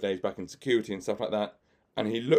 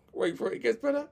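laughing; 13 semitones higher than usual. Real, not acted. Laughs mid-story.

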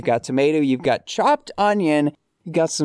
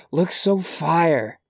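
whisper; 4 semitones higher than usual. Acted. Whispered praise.

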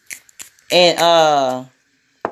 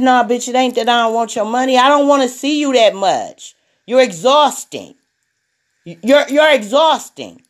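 retelling an irritated comeback, pitched higher; mildly exasperated, higher-pitched pushback; angry retort; 4 semitones higher, 3 dB louder than usual. Retold or imitated. Stylist retelling a blowup at a weekly client, mildly angry. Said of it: "And I got angry".

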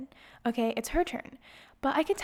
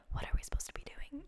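anxious whispered question, much softer; 3 semitones higher, 11 dB quieter, faster than usual. Retold or imitated. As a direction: hush it like asking a stranger nervously. Nervous aside to neighbor in clinic.

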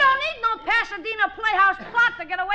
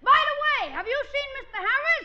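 cue line shown as it should go, first part lifted; demo of the cue; 3 semitones higher than usual. Shown as a demonstration. Julius shows Miss Fay how the cue line should sound. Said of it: "you gotta do it like this".

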